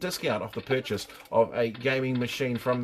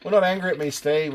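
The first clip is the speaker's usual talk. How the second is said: mock scolding. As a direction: play the angry parent in jest. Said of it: "Not annoyed. Just disappointed".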